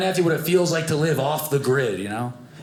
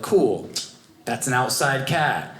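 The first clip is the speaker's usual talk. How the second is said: low, slow, satisfied "outside cat"; lightly acted contentment, settling on "outside"; pleased verdict; 3 semitones lower, slower than usual. Satisfied verdict, cat came back.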